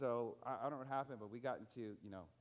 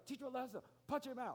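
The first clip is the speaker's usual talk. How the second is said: imitated yell; 10 semitones higher than usual. Preacher repeating the mother's cry, high mock yell. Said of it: "she just kept on yelling".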